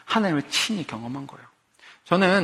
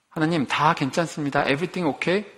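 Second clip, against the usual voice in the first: fake-cheerful faith. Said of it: "그건 믿음이 아니에요".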